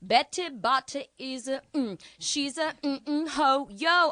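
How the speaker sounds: high, loud stumbling attempt; fumbling teen student. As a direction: trip over it then give up with a yo. Student fumbling the tongue twister.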